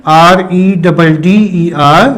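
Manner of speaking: slow, dictated spelling; spelled out slowly. Shown as a demonstration. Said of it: "यहां पे आप लिखेंगे".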